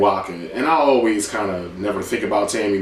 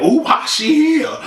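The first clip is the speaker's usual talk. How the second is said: much higher, slow nosy whining; imitating catty women spotting a rival; mock gossip girls; slower than usual. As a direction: drag out why she here like catty girls. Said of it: "all of a sudden they like".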